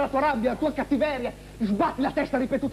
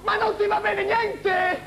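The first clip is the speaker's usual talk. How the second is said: wolf voice; 9 semitones higher, slower than usual. Acted. Wolf answers Red Riding Hood.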